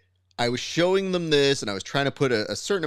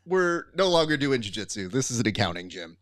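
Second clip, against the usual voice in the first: fed-up declaration; 4 semitones higher, 4 dB louder than usual. Retold or imitated. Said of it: "And I go".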